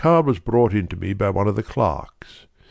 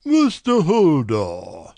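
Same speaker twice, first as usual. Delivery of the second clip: much higher, deliberate voice of a great nobleman; brusque nobleman; 6 semitones higher, much slower than usual. A narrator's reading. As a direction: push through a distasteful errand. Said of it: "with the air of a man who wishes to hurry quickly through a disagreeable task".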